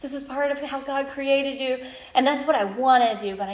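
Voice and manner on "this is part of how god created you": soothing mother. Retold or imitated. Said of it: "I just want to be like".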